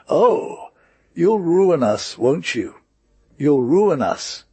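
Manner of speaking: high, loud lament; wailing. A narrator's reading. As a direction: wail it like a ruined wife. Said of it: "The woman cried even louder".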